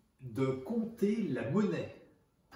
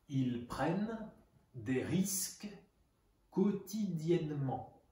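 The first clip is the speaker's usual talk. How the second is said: dictating. Shown as a demonstration. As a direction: split it into pieces for pupils to write. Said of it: "sentence read first in full".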